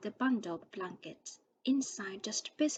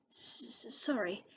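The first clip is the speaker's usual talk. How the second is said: sobbing. A narrator's reading. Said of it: "sobbed Hagrid".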